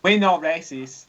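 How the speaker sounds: put-on slow Japanese accent; clipped mock Japanese accent. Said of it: "in your best Japanese accent".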